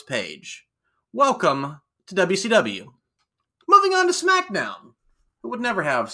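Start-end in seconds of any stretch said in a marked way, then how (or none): 1.1-2.9 announcer voice. Acted. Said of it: "tell me how W C W this sounds". 3.7-4.9 announcer voice. Acted. Segment transition, high loud.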